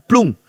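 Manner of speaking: imitated gush of water. Imitates water coming back up.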